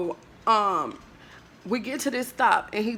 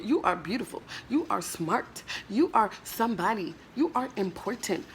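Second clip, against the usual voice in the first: quiet self-affirmation; 5 dB quieter than usual. Retold or imitated. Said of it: "I was like".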